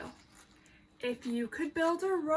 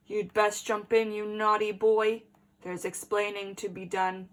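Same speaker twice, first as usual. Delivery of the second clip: lower, a hint of a scolding father; stern dad; 4 semitones lower than usual. Dad scolding his naughty son, lightly voiced lower stern tone. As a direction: gently tell him off from the car.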